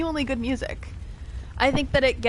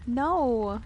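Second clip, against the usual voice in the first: whisper; 2 semitones higher than usual. Pretend. Whispers back to game character.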